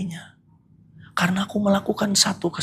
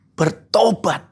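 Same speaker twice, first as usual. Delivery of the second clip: firm call; 3 semitones higher, much slower than usual. Shown as a demonstration.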